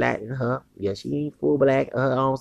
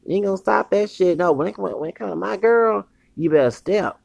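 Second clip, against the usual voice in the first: raised, higher voice, warning other men off; heated warning; 6 semitones higher than usual. Real, not acted. Man warning rivals away from his girl, raised and heated.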